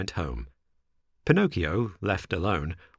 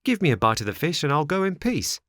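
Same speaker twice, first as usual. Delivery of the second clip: whining dog; 6 semitones higher than usual. A narrator's reading. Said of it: "whining and wagging his tail".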